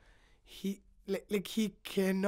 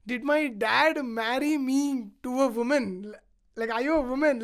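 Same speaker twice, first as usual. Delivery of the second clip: louder, challenging tease; indignant retort; 3 dB louder than usual. Retold or imitated. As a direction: needle him with mock outrage. Sita retorting to Rama.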